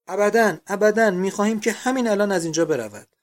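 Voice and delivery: loud, high outcry of protest; shouting. A narrator's reading. Boarders demanding that she leave at once, shouting. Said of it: "فریاد زدند".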